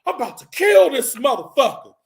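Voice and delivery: high, loud, laughing shout of excitement; hyped-up quote. Retold or imitated. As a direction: yell it out giddy, half laughing, high and loud. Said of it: "he was like".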